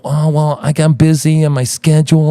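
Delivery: lightly mocking, evasive voice; mock weaseling excuse. Host predicts guest's excuse, mockingly. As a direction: imitate a feeble excuse. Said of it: "You're gonna fucking weasel away".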